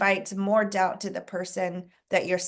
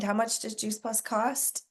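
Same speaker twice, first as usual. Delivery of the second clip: "How much does Juice Plus cost?" said softer, rising at the end on "cost"; soft question tune; 6 dB quieter than usual. Shown as a demonstration. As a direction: let it float up like a doubt. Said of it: "you can hear the question".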